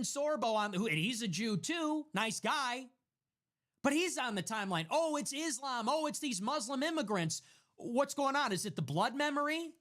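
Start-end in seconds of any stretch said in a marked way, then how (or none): 4.9-9.7 higher, sarcastic whiny parody; mocking quote. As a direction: mimic a fretful online poster. Mocking posts on the timeline.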